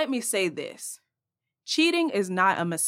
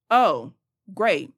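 sarcastic; 6 dB louder than usual. Real, not acted. Sarcastic reply to excuse.

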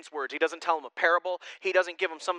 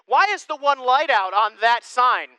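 mimicking a curious child; 7 semitones higher, 9 dB louder than usual.

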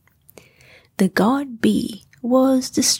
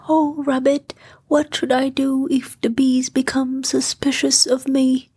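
nervous Pooh; 4 semitones higher than usual. Acted. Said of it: "rather nervously".

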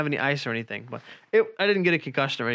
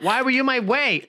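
much higher, louder mock girlfriend voice; 10 semitones higher, 5 dB louder than usual. Boyfriend mimics girlfriend blaming him, high mocking voice. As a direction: pitch it way up to mock her. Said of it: "you said, like".

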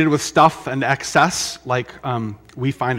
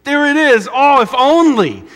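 high, loud starry-eyed gushing; mock longing excitement; 12 semitones higher, 9 dB louder, slower than usual. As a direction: gush like a dazzled TV viewer. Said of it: "and you think".

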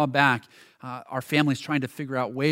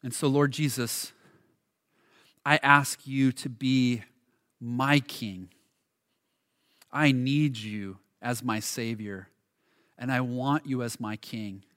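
prayer. Acted. Leads closing prayer.

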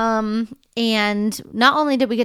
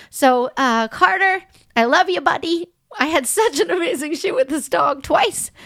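tearful; 4 semitones higher than usual. Real, not acted. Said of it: "I don't know how to stop crying".

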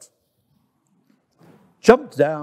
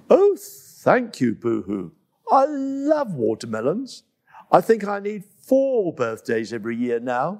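little monkey thrilled with a watermelon; delighted Coco; 3 semitones higher than usual. Acted. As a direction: gush over the gift. Coco thanks Hippo.

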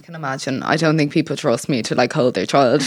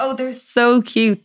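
feigned admiration; 6 semitones higher, slower than usual. Retold or imitated. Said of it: "you have to be like".

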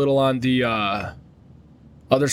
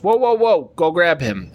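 retold shout; 4 semitones higher than usual. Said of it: "this guy goes".

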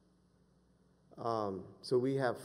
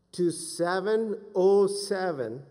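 louder, slow, raised pitch; forceful preaching; 7 semitones higher, 7 dB louder, much slower than usual. Real, not acted. Preacher urging listeners forward, forceful preaching. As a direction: preach it slowly and emphatically.

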